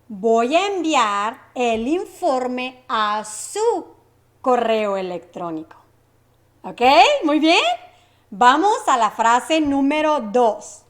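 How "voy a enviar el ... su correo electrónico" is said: slow teaching read. Shown as a demonstration. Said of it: "No dices tú, ahora dices su".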